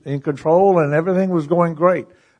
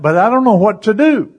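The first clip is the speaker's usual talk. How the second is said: higher protest, pitch climbing on "to do"; retold frustrated protest; 5 semitones higher than usual. Husband answering his reassuring wife, frustrated protest. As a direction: imitate a husband at a loss.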